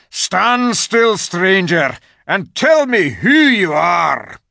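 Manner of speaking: high, loud shouted wolf command; growled warning. A narrator's reading. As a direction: order him like a guard wolf. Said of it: "said in a growling voice".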